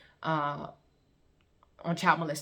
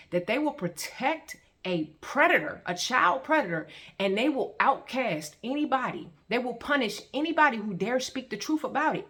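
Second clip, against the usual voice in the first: higher and more heated as the outrage builds; rising indignation; 5 semitones higher than usual. Real, not acted. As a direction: push the pitch up with mounting anger. Indignant rant about protecting predators.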